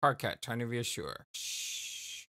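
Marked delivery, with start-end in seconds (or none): 1.3-2.3 whispered shush. Pretend. Soothing a rampaging clown.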